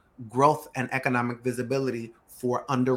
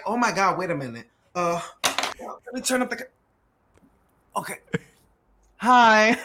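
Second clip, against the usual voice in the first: high, bright fake-friendly hello into the camera; corny camera greeting; 5 semitones higher, 5 dB louder than usual. Mimicking a corny greeting to a new client on camera. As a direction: ham up a cheesy on-camera welcome. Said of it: "That is so corny of me to do".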